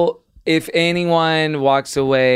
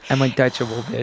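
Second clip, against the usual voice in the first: put-on Chicago accent; 2 semitones lower than usual. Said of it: "He says it in a Chicago accent".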